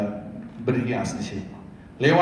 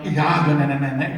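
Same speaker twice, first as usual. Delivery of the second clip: careless bad example; 6 dB louder than usual. Shown as a demonstration. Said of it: "Jangan bilang".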